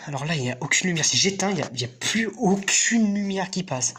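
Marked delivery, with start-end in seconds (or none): 1.0-3.9 scared horror game streamer. Real, not acted. Lights off, total darkness.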